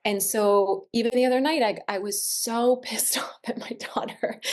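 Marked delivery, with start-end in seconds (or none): 1.6-4.5 breathy giggle through the words; laughing whisper. Real, not acted. Laughing as she confesses to the other mom. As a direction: laugh it out under your breath. Laughing admitting anger at daughter.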